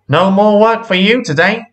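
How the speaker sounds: high, emphatic boss's voice; exasperated man in charge; stern controller. A narrator's reading. Controller scolds the damaged engine.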